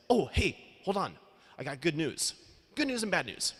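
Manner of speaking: high, eager friend with big news; bubbly announcing tone, a retold friend; voicing his friend. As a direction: pitch it way up like an excited buddy. Ryan quoted telling news.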